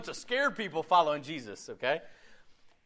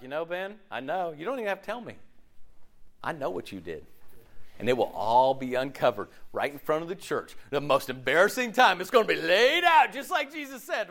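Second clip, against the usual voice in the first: mock accusing believer. Pastor imitating a judgmental Christian, light mock accusation. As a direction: tease the know-it-all churchgoer. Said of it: "And you're like".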